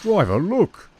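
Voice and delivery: urgent high, loud call. A narrator's reading. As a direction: call out sharply to get the driver's attention. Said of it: "he called".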